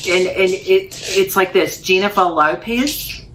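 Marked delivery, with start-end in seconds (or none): 1.8-3.2 slow New Zealand pronunciation of a singer's name; New Zealand accent. Shown as a demonstration. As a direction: say it like a Kiwi, drawn out. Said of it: "you say Jennifer Lopez in a certain way".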